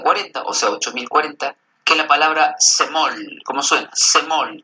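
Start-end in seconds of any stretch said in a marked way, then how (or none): 2.6-3.4 "semol" with the stress on the O; stress on final O. Shown as a demonstration. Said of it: "con acento en la O". 3.9-4.6 "semol" with the stress on the O; stress on final O. Shown as a demonstration. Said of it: "con acento en la O".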